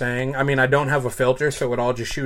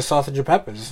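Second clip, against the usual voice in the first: Massachusetts accent. Shown as a demonstration. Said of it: "how we grew up saying it".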